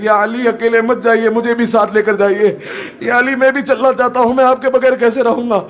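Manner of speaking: imitated grieving appeal to Ali; mild tearful plea. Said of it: "रो रो कर कहते हैं".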